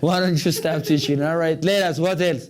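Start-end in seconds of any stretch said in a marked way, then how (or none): 0.0-1.2 slow, amused teacher's echo; slow repeat. Shown as a demonstration. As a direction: repeat it slowly and clearly. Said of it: "እንዴ".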